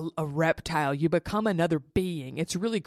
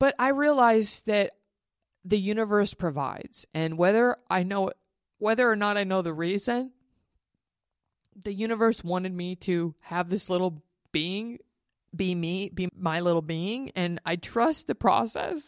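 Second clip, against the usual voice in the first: tearful, crying through the words; 3 semitones higher than usual. A parent talking to their audience about their child, crying while speaking. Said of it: "And yes, I'm crying".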